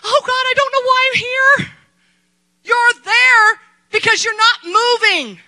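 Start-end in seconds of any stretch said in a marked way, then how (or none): 0.0-1.7 mock tearful higher plea; trembling plea. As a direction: imitate a scared, tearful prayer. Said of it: "you're gonna tremble and say".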